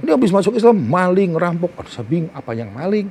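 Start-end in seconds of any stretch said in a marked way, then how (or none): 0.0-1.7 high-pitched imitation of an accuser; mock accusation. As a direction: retell the jeering insult in a raised pitch. Acting out friends' insults about him.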